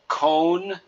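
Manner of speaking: cone with a long o. Shown as a demonstration. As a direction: stretch the o in cone. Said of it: "we'd say con".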